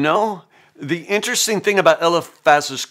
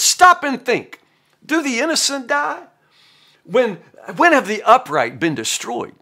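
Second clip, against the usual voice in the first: smug certainty; 8 semitones higher than usual. Retold or imitated. Eliphaz lecturing Job, smug and high. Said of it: "certainty and smugness".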